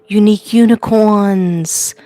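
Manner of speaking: unique unicorns drawn out slowly; slow greeting name. Shown as a demonstration. To her viewers, unique unicorns said slowly. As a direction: say unique unicorns slowly, each word laid out. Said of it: "I forgot to say".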